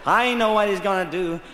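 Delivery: a lightly voiced stomach at normal level. His stomach answers the shoulder, lightly voiced and resigned. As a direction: say it as a resigned gut. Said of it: "My stomach went".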